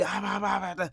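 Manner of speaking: squawky retold yelling at a contained volume; imitated yelling rant. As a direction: mimic her going off nonstop. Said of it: "yelling at me".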